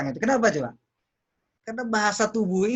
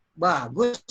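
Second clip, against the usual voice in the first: slow, drawn-out "bagus"; contrasting praise; 2 semitones lower than usual. Shown as a demonstration. Coach compares intonations of one word, drawn-out praise. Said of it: "Karena intonasinya".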